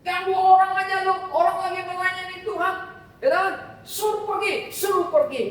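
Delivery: rude dismissal. Acted. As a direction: shoo her away impatiently. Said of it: "kata murid-muridnya kepada Yesus".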